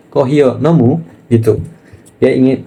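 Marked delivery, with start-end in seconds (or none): 0.1-1.0 "Kohiyo nomu?" with a rising tune; "Kohiyo nomu?" said as a question; "Kohiyo nomu?" lifted at the end. Shown as a demonstration. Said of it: "berarti dia nanya".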